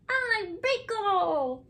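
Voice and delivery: high, slow little creature; shy creature voice. Acted. Beekle shyly telling Alice his name, high and slow. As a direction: say your name like a shy imaginary friend.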